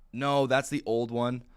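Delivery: drawn-out, firm no; client correcting. Retold or imitated. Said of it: "They're going".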